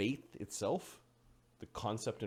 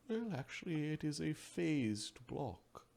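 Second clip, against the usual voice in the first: soft, raised, slow sage voice; unhurried Oracle; 4 semitones higher, 6 dB quieter, slower than usual. Acted. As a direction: correct them gently, drawing the words out. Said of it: "says the Oracle".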